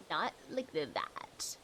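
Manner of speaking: slow whispered aside. Real, not acted. Aside about a respectful character.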